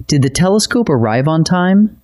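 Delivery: "Did the telescope arrive on time?" with the voice lifting on "time"; rising question tune. Shown as a demonstration. Teacher modelling a question's rise for students, rising tune. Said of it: "You can hear your voice rise at the end".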